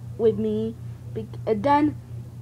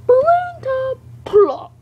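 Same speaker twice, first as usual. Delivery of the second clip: much higher and louder, slow squeal; 14 semitones higher, 7 dB louder, slower than usual. Acted. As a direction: squeal it out in play. Toy fight, high squeal.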